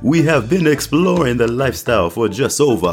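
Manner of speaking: a hint of a Trinidad and Tobago accent; attempted Caribbean accent. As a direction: read the review in a hammed-up Caribbean accent. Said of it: "I'm gonna try my best Caribbean accent".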